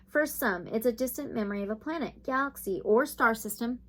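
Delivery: a lightly held soothing reading voice; reading aloud. Acted. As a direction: read the card meaning gently. Reads the guidebook text.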